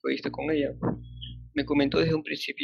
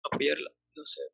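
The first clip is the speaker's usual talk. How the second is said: far from mic; slower than usual. Real, not acted. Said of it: "algo pasa con tu micrófono, no te escucho".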